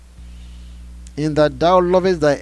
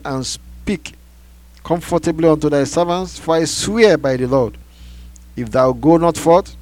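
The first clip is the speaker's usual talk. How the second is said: loud, raised voice, building in force, easing at the end; stern rebuke; 5 semitones higher, 7 dB louder than usual. A narrator's reading. Joab reproaches the king for shaming his servants, forceful rebuke. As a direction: hammer the reproach home, loud and high.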